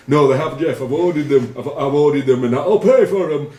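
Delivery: high, loud pleading mimicry; panicked confession. Teammate pleading with captain, hammed-up panicky high voice. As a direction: beg like a frightened teammate caught out.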